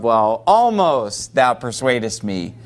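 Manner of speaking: hesitant grudging admission; lightly voiced reluctant king; halfway answer. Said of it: "kind of a halfway answer".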